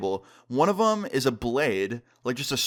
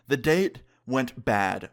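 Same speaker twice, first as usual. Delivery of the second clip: slow, drawn-out delivery; grave announcement; much slower than usual. Retold or imitated. Breaking bad news to friends on a call, slow and grave. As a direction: stretch it out for weight.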